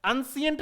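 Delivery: एंशिएंट said as "an-si-ent", three syllables; wrong pronunciation demo. Shown as a demonstration. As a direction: show the mistaken "an-si-ent" for एंशिएंट. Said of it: "नहीं बोलेंगे इसको".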